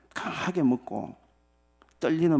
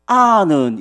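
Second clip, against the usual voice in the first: loud, blunt Gyeongsang "아는"; Gyeongsang dialect; 6 semitones higher, 13 dB louder, much slower than usual. Retold or imitated. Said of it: "경상도 말로 두 글자입니다".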